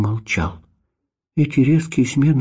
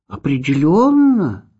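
reassuring; 5 semitones higher, 4 dB louder, slower than usual. A narrator's reading. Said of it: "заверил Маурицио".

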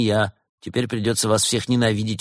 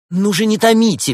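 very high, loud squeal; squeak; 14 semitones higher, 8 dB louder than usual. Acted. Actress begs the detective not to stall, squeaking. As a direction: squeak it out impatiently. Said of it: "пискнула актриса".

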